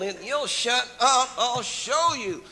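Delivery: loud, high comic threat; feisty puppet retort. Acted. Old puppet fed up with the interviewer, loud mock anger. Puppet snaps back at age question.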